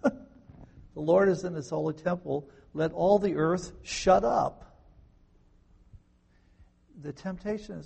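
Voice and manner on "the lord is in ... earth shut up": slow, louder, weighty preaching proclamation; booming slow pulpit declaration. Acted. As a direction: proclaim each word slowly to the crowd.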